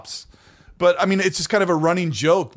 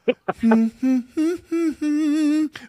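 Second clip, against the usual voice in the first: humming imitation; 13 semitones higher than usual. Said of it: "does this same humming thing".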